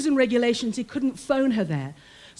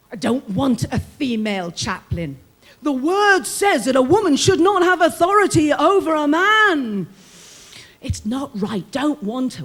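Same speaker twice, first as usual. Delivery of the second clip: resentful men, louder on the scripture line; grumbling inmates; 7 dB louder than usual. Retold or imitated. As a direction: mimic the men's grumbling complaint. Inmates' objections retold.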